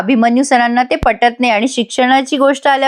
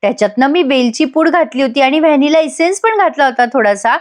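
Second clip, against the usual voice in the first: brighter, higher, delighted reply; happy and pleased; 3 semitones higher than usual. Retold or imitated. Gauri thrilled her sister-in-law liked the cake, happily higher. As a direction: lift the voice with pleasure at the praise. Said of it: "Gauri खुश होऊन म्हणते".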